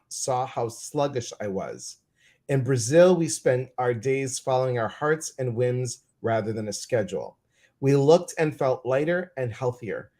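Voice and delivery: measured book-passage reading; even, composed read-aloud from a book. Real, not acted.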